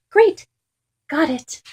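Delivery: high, loud cry of triumph; excited triumph. Acted. Dog finding the lost ball, excited high cry. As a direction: shout with glee.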